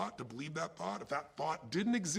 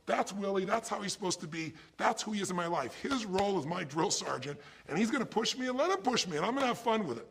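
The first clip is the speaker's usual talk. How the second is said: building up louder and higher, pumped; rising excitement; 5 semitones higher, 3 dB louder than usual. Pretend. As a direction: talk yourself up for the day. Imagined pep talk at work.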